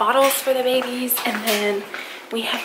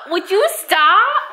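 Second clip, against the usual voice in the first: high, slow, laughing through it; half-laughing plea to stop; laughing protest; 5 semitones higher, 4 dB louder, slower than usual. Real, not acted. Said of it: "Don't pull my hair".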